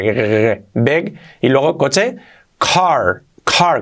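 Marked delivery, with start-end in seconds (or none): 2.6-3.8 car with a coughed hard C; strong C. Shown as a demonstration. Teacher showing learners car, very strong C. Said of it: "la C muy fuerte y la R".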